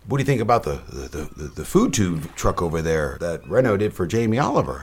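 lightly imitated Fargo accent. Stranger asking about the food truck, Fargo accent. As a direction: put a North American Fargo lilt on the stranger. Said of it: "Did he really sound like someone from Fargo?".

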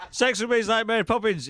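rushed, giggling through it; laughing fast. Pretend. Co-host laughing through the rebooted joke. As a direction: blurt it while cracking up.

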